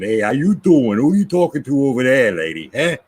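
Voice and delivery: put-on lightly done New York street accent, like teasing a stranger. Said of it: "we did this New York accent".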